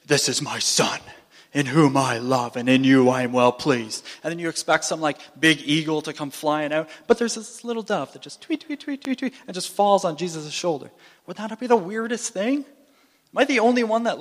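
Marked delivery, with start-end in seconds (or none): 0.0-4.0 lower, louder booming voice from heaven; big booming voice. Retold or imitated. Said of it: "there's this big booming voice from heaven". 8.4-9.3 tweet. Retold or imitated. Imitating a little dove.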